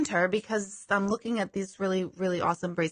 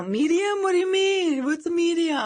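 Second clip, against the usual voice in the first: higher, puzzled clerk voice; baffled clerk; 8 semitones higher, 3 dB louder than usual. Retold or imitated. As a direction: play a clerk who has no idea. Imagined confused clerk reaction.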